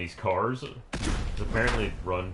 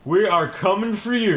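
menacing taunt; 9 semitones higher, 6 dB louder than usual. Pretend. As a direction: hit the word "We" hard. Repeated menacing call.

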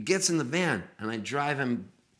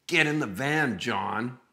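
mock movie-psycho order, raised then dropping on the name; creepy kidnapper; 2 semitones higher, slower than usual. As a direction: play at being the captor giving orders. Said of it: "in that type of voice".

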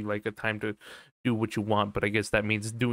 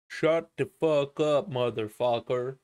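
normal talking voice

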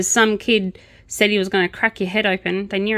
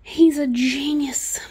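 slow, higher, mock-admiring; sarcastic; 7 semitones higher, slower than usual. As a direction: drawl the praise with heavy sarcasm. Sarcastic about officer.

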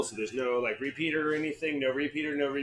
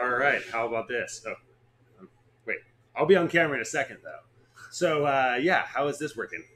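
faster, louder test read; 4 dB louder than usual. Shown as a demonstration. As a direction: push it out quick and loud. Loud test take.

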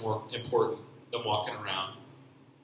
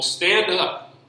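loud, high, stretched-out command; emphatic exclamation; 9 semitones higher, 10 dB louder than usual. Retold or imitated. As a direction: call it out with an exclamation mark. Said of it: "it's an exclamation mark".

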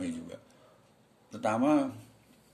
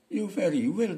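put-on high, loud Madurese-accented English; reply brightly in a Madurese accent, pitched up; hammed-up Madurese English; 9 semitones higher, 6 dB louder than usual. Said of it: "Misalnya begitu".

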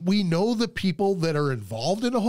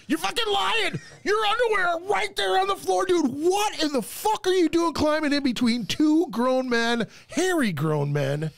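outraged yell; 13 semitones higher than usual. Retold or imitated. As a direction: blast him for lying, pitched way up. Outraged calling out the intruder.

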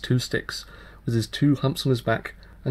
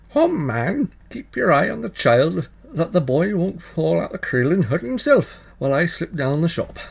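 higher, louder bustling housewife; mother's voice; 5 semitones higher, 5 dB louder than usual. Acted. Mother tells the tailor to watch the child, higher and louder. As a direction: call it out like a busy mother.

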